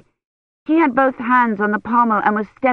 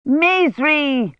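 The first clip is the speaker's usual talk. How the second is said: higher, falling call across the yard; shout; 8 semitones higher than usual. A narrator's reading. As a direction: call the servant sharply. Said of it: "Hermione shouted".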